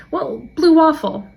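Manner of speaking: high, slow innocent student voice; lightly mocking a kid's voice; imitating student. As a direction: offer it like a sweet innocent answer. Student's deadpan suggestion voiced.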